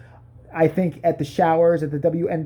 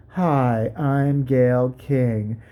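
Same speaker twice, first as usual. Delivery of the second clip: lightly lowered, slow droning monotone; Gayle King impression; 4 semitones lower than usual. Comic mocking a dull TV host with a hint of monotone. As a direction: drone it out like a bored host. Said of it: "she talks like this".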